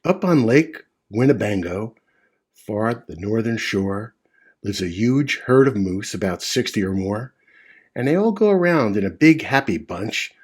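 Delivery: put-on rhythmic read-aloud for children; storybook narration. A narrator's reading. Reading Seuss aloud to children, rhythmic storytelling. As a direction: read it with a bouncy rhyme.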